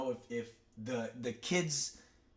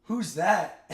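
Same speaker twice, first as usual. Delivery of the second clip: put-on confused kids; 7 semitones higher, 9 dB louder, much slower than usual. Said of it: "all these kids go".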